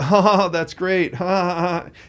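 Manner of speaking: forced laughing. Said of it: "the gals are like".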